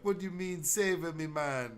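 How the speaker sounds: high, disbelieving; mock outrage at being rescued; incredulous castaway voice. Castaway to his rescuers, high and incredulous. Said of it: "And you'd be like".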